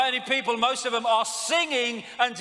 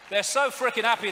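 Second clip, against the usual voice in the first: sarcastic; 4 semitones higher, 5 dB louder than usual. Real, not acted. Sarcastic about smiling royals.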